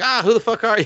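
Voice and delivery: high-pitched mock alarm; retold startled outburst. She confronts the pig man who shows up, mock startled. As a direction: act out a startled, affronted demand.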